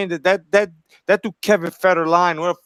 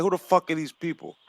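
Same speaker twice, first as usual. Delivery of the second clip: softer, dismissive mutter under the breath; muttered quote; 7 dB quieter than usual. Retold or imitated. Still baffled by singers today, soft dismissive mutter. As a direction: mutter it like you've given up. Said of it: "I'm like".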